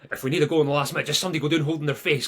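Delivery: mock dressing-room speech ending in a laugh; mock team talk. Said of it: "tactic in the dressing room".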